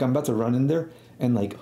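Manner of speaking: ordinary delivery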